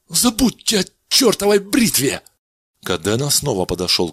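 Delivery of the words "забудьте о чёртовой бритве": much higher, sharp angry cry; angry outburst. Acted. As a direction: throw the razor idea away. Kadena refuses, angry.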